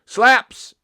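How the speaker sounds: high, loud hyped "Slaps"; loud excited slang announcement. Pretend. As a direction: shout it like a hype man.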